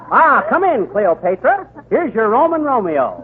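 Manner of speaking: grandly announcing the Roman lover, mock-royal; hammed-up pharaoh. King Tut welcoming Cleopatra to Mark Antony, hammed-up. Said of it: "you're King Tut".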